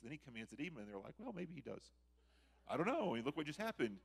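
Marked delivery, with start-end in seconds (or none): 1.2-4.0 high, loud, excited uncertainty; amazed debating crowd. Acted. Townspeople debate what just happened, high and excited. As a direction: argue it out, astonished and unsure.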